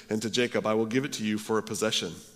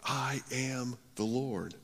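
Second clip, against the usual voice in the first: I am the Lord, soft and slow; hushed; 2 semitones higher, 8 dB quieter, slower than usual. Shown as a demonstration. Preacher echoing God's words hushed and slow. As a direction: let it settle, softly and slowly. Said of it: "repeats it softly after pause".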